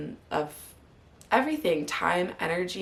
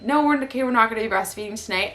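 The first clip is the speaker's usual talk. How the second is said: firm boundary; 4 semitones higher, 6 dB louder, much faster than usual. Retold or imitated. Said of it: "I would set the boundary".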